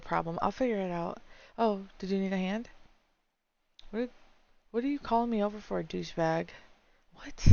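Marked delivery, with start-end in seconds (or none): 3.9-6.5 rude retort. Acted. Classmate insulting Dominic, fast rude comeback. 7.1-7.5 sharp what. Acted. Boys trading insults.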